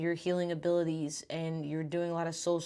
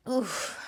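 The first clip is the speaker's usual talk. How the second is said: winded oof; 6 semitones higher than usual. Real, not acted. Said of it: "I'm out of breath".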